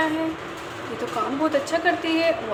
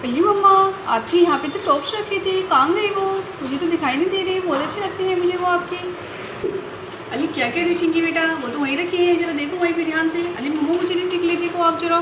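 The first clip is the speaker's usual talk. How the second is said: put-on sly child. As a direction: ask about the earrings sweetly. Child asking about earrings.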